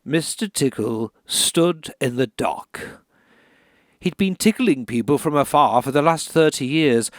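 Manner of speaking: measured bedtime reading; story narration. Acted. Author reading Mister Tickle aloud, grave and measured. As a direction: read it gravely, like a court drama. Reads children's book as dark story.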